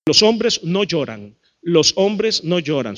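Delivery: low, slow, measured decree; stern macho maxim. Acted. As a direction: lay down the rule slowly, word by word. Mimics stern maxim taught to boys.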